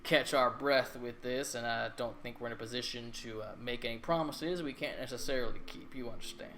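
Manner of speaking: put-on a pompous governor with a country accent. Governor voiced by GM.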